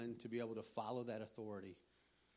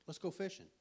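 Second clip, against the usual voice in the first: pitched higher, playful coaxing; coaxing friend; 6 semitones higher than usual. Retold or imitated. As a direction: tempt him away from work. Friend coaxing him to go fishing.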